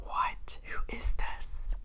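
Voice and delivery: breathless stunned whisper; hushed whisper. Pretend. Guests stunned by a hot air balloon arrival, whispering. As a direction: gasp it out under your breath, slow. Imagined guests gasping at entrance.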